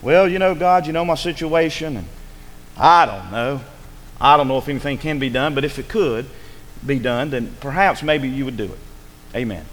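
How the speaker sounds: low, noncommittal mock prayer; mumble-free but doubtful, imitating a prayer without conviction; half-hearted prayer. Preacher mimicking someone praying without pleading, half-hearted. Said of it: "did you just pray something like this".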